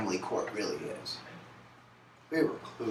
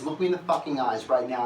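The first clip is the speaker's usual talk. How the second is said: furious demand; 4 semitones higher, 6 dB louder than usual. Retold or imitated. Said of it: "She goes".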